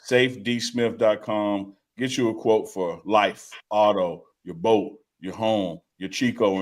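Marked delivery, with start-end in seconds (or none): 0.0-1.7 "safe D Smith dot com" slowed right down, every part spaced; careful spelling-out. Shown as a demonstration. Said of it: "not safety".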